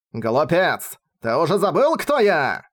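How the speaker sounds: lightly growled, rising challenge; a hint of a dragon's snarl; growling. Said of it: "зарычал метамадракон".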